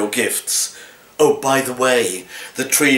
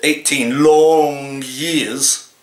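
mock forlorn; much slower than usual.

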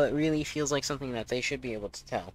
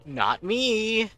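sudden loud yelp; startled shout; 10 semitones higher, 9 dB louder than usual. Real, not acted. Startled outcry.

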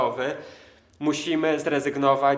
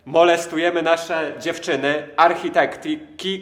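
excited; 3 semitones higher, 7 dB louder than usual. Real, not acted. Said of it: "prezentator mowy".

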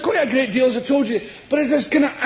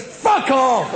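punchy fuck off; 2 semitones higher than usual. Shown as a demonstration. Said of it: "It doesn't have the same balls".

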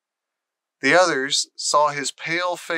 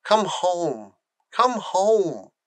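wishing; 5 semitones higher, much slower than usual. Acted. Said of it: "Colin began to wish".

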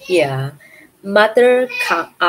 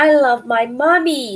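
put-on baby owl; 6 semitones higher, 3 dB louder, much slower than usual. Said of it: "said Bill".

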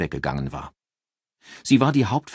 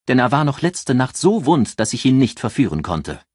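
taunting boast; 3 semitones higher, 5 dB louder than usual. Acted. Ann taunts Sophia, louder.

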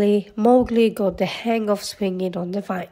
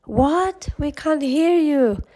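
calling back; 6 semitones higher, slower than usual. A narrator's reading. Baloo straining to hear Mowgli across the river, calling. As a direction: pitch it up to reach across a distance.

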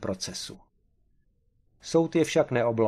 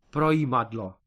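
enthusiastic. A narrator's reading. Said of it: "zvolal Kareš nadšeně".

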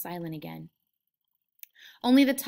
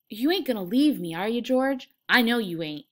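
lightly voiced pleading, higher and louder; insistent, hopeful appeal to a friend; pleading Lenny; 3 semitones higher, 7 dB louder than usual. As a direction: plead loudly, seeking reassurance. Lenny pleading with George, read aloud.

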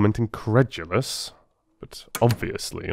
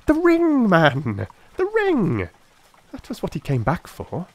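excited exclamation; 11 semitones higher than usual. A narrator's reading. Holmes exclaims to Watson about the ring, excited. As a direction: burst out with the answer.

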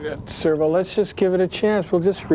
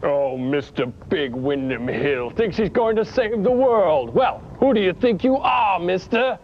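villain Gary. Acted. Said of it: "you're Gary".

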